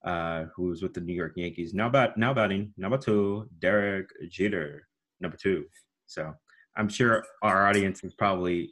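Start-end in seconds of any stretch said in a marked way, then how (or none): 1.7-5.7 Bob Shepard impression. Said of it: "the late, great Bob Shepard".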